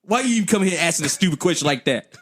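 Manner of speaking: fast, laughing scold; wife scolding husband, quick with a laugh. Retold or imitated. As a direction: scold him like a fed-up wife.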